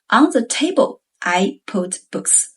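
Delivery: highlight "On the table" as the setting, then drop; stress on TABLE. Shown as a demonstration. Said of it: "The location is highlighted as the setting".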